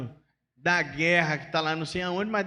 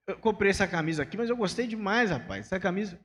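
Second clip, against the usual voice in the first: pleased shopper. Retold or imitated. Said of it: "eu vou dar um exemplo da camisa".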